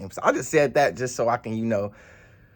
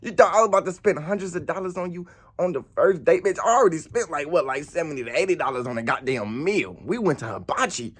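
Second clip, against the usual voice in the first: indignant rant; 4 semitones higher than usual. Retold or imitated. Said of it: "I'm like".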